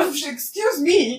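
bem devagar, cheio de indignação; indignada arrastada. Retold or imitated. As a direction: estique o excuse me incrédula. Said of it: "Ela fala". (Bella chocada com o cheiro, fala arrastada)

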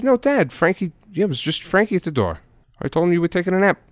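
high, fast protest; insistent. Retold or imitated. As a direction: insist it really was him. Son insisting in argument.

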